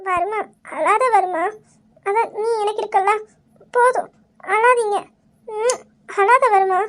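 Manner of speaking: slow, weepy comforting; tearful soothing. Acted. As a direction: hush him gently through tears. Crying wife soothes her weeping husband. (அழுகையோடு மெதுவான ஆறுதல்)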